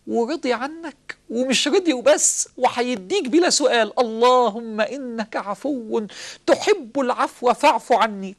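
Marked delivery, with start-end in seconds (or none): 4.0-8.3 slow, drawn-out supplication; slow prayer. Acted. Preacher leading the congregation in prayer, slow and pleading. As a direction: plead each word slowly to God.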